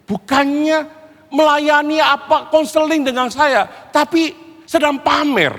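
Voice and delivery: high, drawn-out protest; indignant complaint. Acted. Child complaining that Papa shows off, indignant protest.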